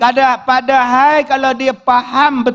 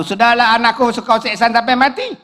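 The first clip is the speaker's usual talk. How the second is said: raised, quickening scolding; scolding mother-in-law; 3 semitones higher, faster than usual. Retold or imitated. Mother-in-law scolds man weeping at daughter's grave, indignant. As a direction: act out a fed-up scolding, getting higher and faster. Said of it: "kata dia".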